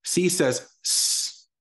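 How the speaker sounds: high, slow aha moment; discovering. Shown as a demonstration. Teacher acting out the kid's aha, high and slow. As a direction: stretch "C says s" like a discovery. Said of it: "we'll learn, oh".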